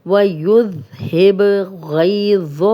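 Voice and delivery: وَيُذْهِبْ ending in a bounced ب; slow tajweed drill; qalqalah bounce. Shown as a demonstration. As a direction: shake the ب in وَيُذْهِبْ. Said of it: "ہم ہلا کے پڑھیں گے".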